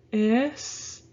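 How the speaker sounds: "escuela" in separate beats, es, cue, la; syllable by syllable. Shown as a demonstration. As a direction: break "escuela" into es-cue-la with long pauses. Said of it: "leave those two together and go".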